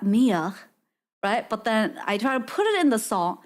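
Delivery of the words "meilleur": copying a French word, lower; attempted French "meilleur", pitched down; mimicked French pronunciation. Shown as a demonstration. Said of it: "I can mimic that".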